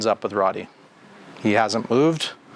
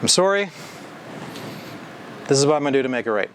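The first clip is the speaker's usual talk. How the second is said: sincere apology; faster than usual. Shown as a demonstration. Coach showing staff how to apologise to customers, sincere then brisk. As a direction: own it warmly, then rush the fix-it plan. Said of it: "That's what sorry is about".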